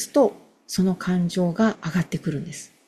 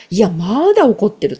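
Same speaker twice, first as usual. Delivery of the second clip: emphatic; 2 semitones higher, 6 dB louder than usual. Shown as a demonstration. 自分を客観視する独り言.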